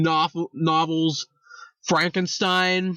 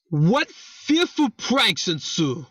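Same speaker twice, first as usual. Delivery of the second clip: put-on slow, hammy Scottish accent; drawn-out quote in mock-Scottish; Scottish accent attempt; slower than usual. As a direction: read it in a rough Scottish accent. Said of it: "put on a, a proper Scottish accent".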